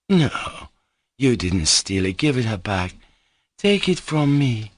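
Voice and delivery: passionate Grushenka. Acted. Grushenka vowing to work for Mitya and threatening her rival. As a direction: pour out devotion, then jealousy.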